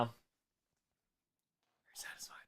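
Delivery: slow breathy whisper, barely voiced; creepy slow whispered question. Shown as a demonstration. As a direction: lean in and whisper it slowly. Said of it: "Are you satisfied now?".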